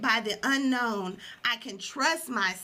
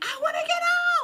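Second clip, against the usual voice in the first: very high, shrill screamed cry; 4 dB louder than usual. Recalling being blindfolded with coaches nearby: retelling a scream. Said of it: "I literally was screaming like".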